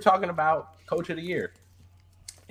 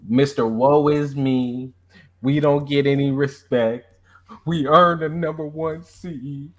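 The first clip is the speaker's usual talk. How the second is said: mocking impression. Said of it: "I didn't even sound like that".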